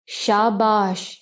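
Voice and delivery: slow, drawn-out mock praise; a lightly voiced sarcastic villain. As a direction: stretch the praise out to sneer. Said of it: "طنز بھری آواز".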